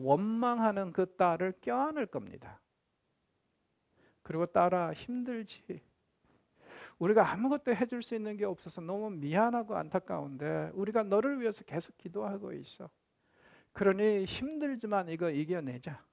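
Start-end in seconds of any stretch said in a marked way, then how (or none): 4.5-16.0 tender parent. Retold or imitated. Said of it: "껴안아주는 이 부모".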